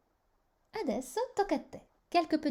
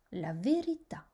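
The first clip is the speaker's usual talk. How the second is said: la verità with the accent on the final TÀ; stress on last syllable; 2 semitones lower than usual. Shown as a demonstration. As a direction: land on TÀ in la verità. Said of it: "sur la dernière syllabe". (accent tonique sur « tà » dans la verità)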